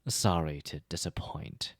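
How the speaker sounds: slow, dry and acrid. Acted. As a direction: let the sarcasm drip slowly. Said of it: "said in an acrid tone".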